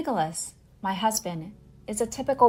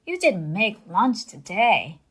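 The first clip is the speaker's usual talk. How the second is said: loud, slow angry demand; husband yelling at his wife over the phone, loud and slow; yelled at; 5 dB louder, slower than usual. Retold or imitated. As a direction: bark it down the phone, slowly. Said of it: "my husband abruptly yelled at me".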